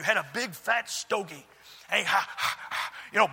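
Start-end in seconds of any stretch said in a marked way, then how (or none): 1.9-2.9 huffing, puffing angry man; imitated sputter of an angry cigar smoker; mad sputtering. Furious landlord puffing smoke at the pastor, mock sputtering. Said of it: "blowing smoke at me, spit flying out of him".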